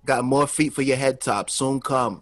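lightly voiced Toronto accent; a hint of Caribbean-tinged Toronto talk. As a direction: put on a casual Toronto accent like a famous rapper's. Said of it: "They all talk like that".

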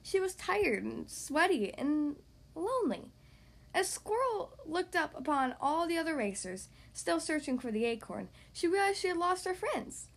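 put-on animated read-aloud to young kids; story narration. Podcast host reading to young kids, story narration. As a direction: read it like a lively picture-book narrator. Reads picture book to children.

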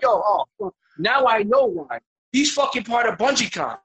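high, loud dawning "oh"; sudden realization. Retold or imitated. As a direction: exclaim as it clicks, slowing down. Realization while watching movie.

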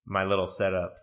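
echoey voice in an empty room; talking in a big bare echo chamber; cave echo. Real, not acted. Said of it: "know I sound like a cave".

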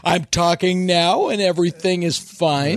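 lightly played drunk, measured words; hammered actor. Comic imitating an actor after a liquid lunch, hammered. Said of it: "he was completely hammered".

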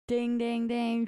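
high, bright quiz-show bell voice; game show ding. Pretend. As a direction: chime like a game show buzzer. Cheering a correct guess.

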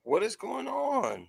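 high slow stunned disbelief; drawn out in shock. Real, not acted. Shocked by the candle.

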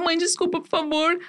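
high-pitched imitated plea to mom; retold tearful pleading. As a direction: re-enact begging forgiveness, pitched well up. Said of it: "Eu comecei a chorar". (imitando súplica chorosa, voz aguda)

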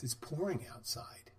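a soft, slow, breathless whisper of the news; whispered report. Retold or imitated. Customer coming back in, whispering that it's pouring outside. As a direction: lean in and breathe the words out slowly.

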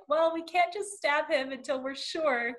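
mock exasperated reasoning; imitated pleading. Co-host voicing Zeynep trying to stop a stabbing, imitated pleading.

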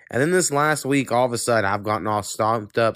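stuffy nose; congested. Real, not acted. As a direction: talk with a blocked nose. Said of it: "I'm all congested".

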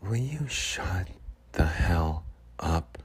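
slow, soft drawn-out ask; lightly voiced Sharon, slow and quiet; Sharon's sweet way. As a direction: stretch it out gently like Sharon. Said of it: "the way that she says".

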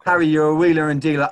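mock reporter. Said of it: "That was Harry Redknapp".

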